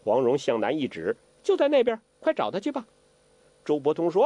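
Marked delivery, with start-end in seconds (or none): 1.4-2.9 put-on high, coy young girl; sly teasing girl. Huang Rong teases Zhou Botong, coy. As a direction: tease him sweetly, higher.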